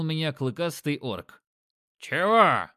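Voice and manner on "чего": short rough growl, louder; orc growl. Acted. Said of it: "рыкнул он". (рык орка)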